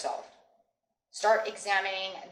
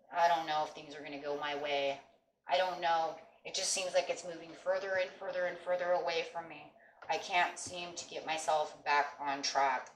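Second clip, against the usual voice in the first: sad; 4 dB quieter than usual. Retold or imitated. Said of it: "sad and".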